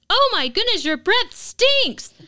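put-on kid held nose voice. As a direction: blurt it out like a tactless toddler. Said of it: "throws her hand over her nose really loud and says".

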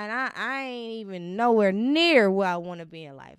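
heated insistence on nowhere near; emphatic declaration. Real, not acted. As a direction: declare it loud, fighting through emotion. Emphatic self-assessment, voice rising.

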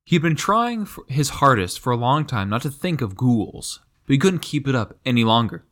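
lively book-reading voice; story reading. Acted. Co-host reads the Narnia passage aloud, story narration. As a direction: read it aloud with rising suspense.

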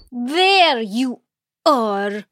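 sharp loud there you are; scolding. Acted. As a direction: bark it at her. Stepmother scolding Mara.

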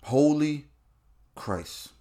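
trailing off to a hush; stunned fade. Real, not acted. Comic muttering in stunned disbelief, fading out. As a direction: let it die away in shock.

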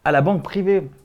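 put-on Genevan accent, lightly done. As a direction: play a proud local with a Geneva accent. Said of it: "t'as perdu ton accent genevois". (accent genevois joué)

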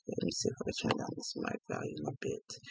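distant, away from the microphone; off mic. Real, not acted. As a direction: speak turned away from the mic. Adjusting mic, off mic.

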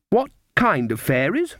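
put-on high, slow suspicious child; testing little girl.

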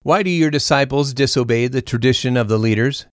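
measured, formal Bible reading; lightly voiced speakers within a steady reading; scripture reading. A narrator's reading. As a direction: read the Gospel clearly to the congregation. Reads the Gospel passage aloud.

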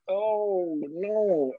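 high, drawn-out cringing dismay; mock dismay. Watching a couple snip at each other, mock dismay. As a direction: stretch it out high, as an uncomfortable onlooker. Onlooker reacting to couple's sniping.

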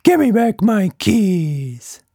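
high, slow insistent demand; slow demanding creature voice. A narrator's reading. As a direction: press him firmly. Quatch Monster demands.

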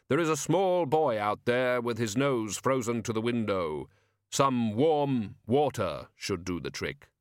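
slow, even, gently helpful Death; calm and unhurried advice. Acted. Death gives kind advice.

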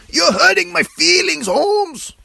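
hammed-up fake crying, very high and loud; Eddie Guerrero, pretend crying. Wrestler tells Chris he is hurt, mock crying. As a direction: wail it in a mock tearful squeal. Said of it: "Eddie pretends to cry".

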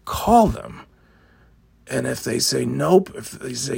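high, scornful mimic of an instruction; mock the bossy order. Mocking the office's instructions.

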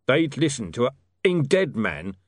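angry shout. Acted. Tulip angry outburst.

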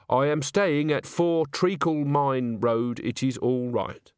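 careful, lightly voiced reading of a letter; a touch of stiff, deliberate correctness; letter writer. Agnes writing home to her mum, careful letter voice.

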